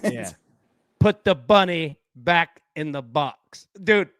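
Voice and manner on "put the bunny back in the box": slow, attempted Southern drawl; lightly imitated Southern movie-hero line; Nicolas Cage Southern accent. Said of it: "can't even do Nicolas Cage's Southern accent".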